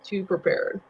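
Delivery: eating while talking; wolfing down food. Real, not acted. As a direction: talk through a mouthful. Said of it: "Sorry, I'm eating".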